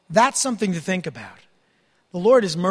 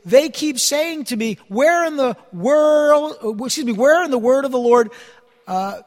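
scripture reading; 4 dB louder than usual. Acted. Preacher reading Jeremiah's prayer to the congregation, solemn and raised. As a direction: proclaim the verses with weight. Reads Jeremiah passage aloud.

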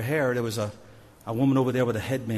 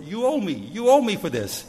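a higher mock shout across the court; retold yell; 6 semitones higher, 5 dB louder than usual. Michelle yelling across the prison court, mock shout. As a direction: call it out big, teasing the prisoner. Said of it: "she yells out across the whole court".

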